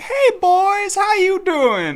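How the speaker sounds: put-on southern accent, very high and slow drawl. Retelling how the woman serving them greeted them, put-on southern accent. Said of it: "she had like a southern accent to her".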